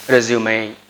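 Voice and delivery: resume as a noun, REZ-yoo-may; noun pronunciation. Shown as a demonstration. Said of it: "If it is noun, we have to say".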